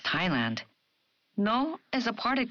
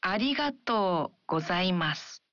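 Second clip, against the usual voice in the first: slow practice. Shown as a demonstration. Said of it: "Let's practice saying it slowly".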